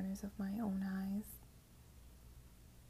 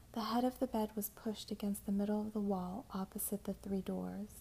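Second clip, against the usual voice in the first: whispered narration. A narrator's reading. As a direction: whisper the story close to the mic.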